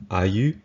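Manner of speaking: ayu said slowly as "eye-you"; Creole ayu. Shown as a demonstration. Teacher modelling the Creole word for where, slow and clear. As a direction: spell out ayu slowly, ah-yoo. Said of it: "That's how we say where in Louisiana Creole".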